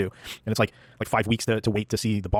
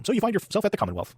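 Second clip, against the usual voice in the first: higher-pitched mock promotional voiceover; promo video narrator; 10 semitones higher than usual. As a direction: imitate a cheesy promotional video host.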